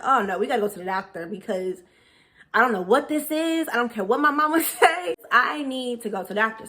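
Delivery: freaking out. Retold or imitated. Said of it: "I'm freaking out at this point".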